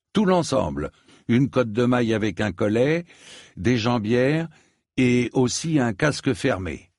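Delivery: lightly voiced knight ordering.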